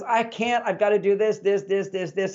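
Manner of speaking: mildly protesting, piling up chores; woman's grumble. Retold or imitated. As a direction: imitate a wife objecting. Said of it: "not like a woman's grumble".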